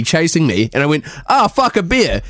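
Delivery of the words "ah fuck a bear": higher-pitched pretend panic; mock alarm. Kiwi imagining being chased by a bear, mock alarm. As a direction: cry out as if a bear is chasing you. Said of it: "if I was running away from an animal".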